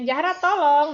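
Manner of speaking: wrong example, demanding tone; bare command. Shown as a demonstration. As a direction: call the name and bark "tolong". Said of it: "nggak cuman".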